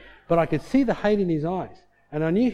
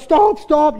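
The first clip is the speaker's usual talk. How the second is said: high, loud mock begging; imitated helpless laughing plea; 10 semitones higher, 9 dB louder than usual. Visitor begging laughing wife to stop, mimicked high shout. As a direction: cry out as if laughter hurts. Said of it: "now he's bellyache laughing".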